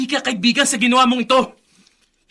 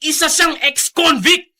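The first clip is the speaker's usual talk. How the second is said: angry accusation; 4 semitones higher, 4 dB louder than usual. Acted. Son denouncing his father.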